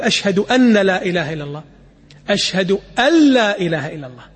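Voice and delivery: أن said as أنّ with a doubled, stressed nun; wrong doubled nun. Shown as a demonstration. Teacher showing students the common mispronunciation. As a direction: lean on the nun of أن as if it were double. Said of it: "لا تقول".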